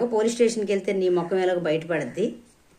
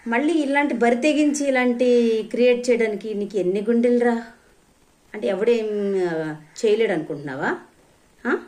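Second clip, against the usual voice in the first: angry outburst; 4 semitones higher than usual. Real, not acted. Scolding a commenter angrily.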